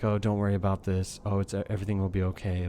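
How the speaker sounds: low, reassuring imitation of a calm boss. Boss reassuring his worried employee, imitated very calm. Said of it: "like, a very calm voice".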